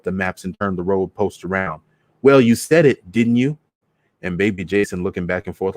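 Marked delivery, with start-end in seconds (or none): 2.2-3.6 mild accusing yell. Retold or imitated. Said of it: "I can hear that I'm screaming".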